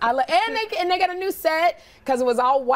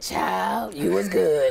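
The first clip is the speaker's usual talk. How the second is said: Whoopi impression; 4 semitones lower, much slower than usual. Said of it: "you've done Whoopi".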